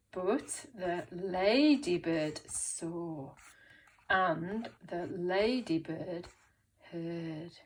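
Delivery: slow, suspenseful story reading; slow read-along. Shown as a demonstration. Teacher reading the story with pupils, slow read-along. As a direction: draw each phrase out slowly.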